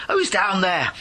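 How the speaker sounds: miner calling down. Acted. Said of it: "he heard a voice".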